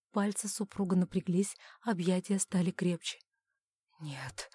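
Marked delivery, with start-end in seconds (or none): 4.0-4.5 very soft, low breathed no; quiet exhale. Acted. Husband breathing out denial, very soft and low. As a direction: breathe out the no almost soundless. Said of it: "тихо выдохнул он".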